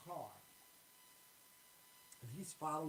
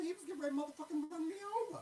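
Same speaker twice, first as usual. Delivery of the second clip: shrieking retell; 12 semitones higher, 4 dB louder, much faster than usual. Retold or imitated. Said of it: "I said, I said".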